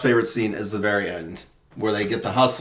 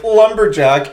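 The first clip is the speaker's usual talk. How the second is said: breathless high swoon; 8 semitones higher, 6 dB louder than usual. Retold or imitated. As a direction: sigh it out, smitten. Swooning reply in the montage.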